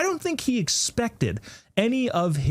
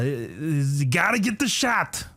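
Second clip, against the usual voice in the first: slow, badly faked impression voice; Fauci; slower than usual. Host testing his not-that-good impression, Batman-like doctor voice. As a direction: attempt a gruff Batman-like doctor voice. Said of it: "whether or not I'm gonna do the Fauci voice".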